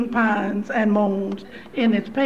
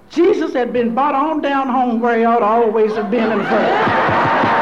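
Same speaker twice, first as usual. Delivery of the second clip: preaching shout; 4 dB louder than usual. Real, not acted. Preaching climax.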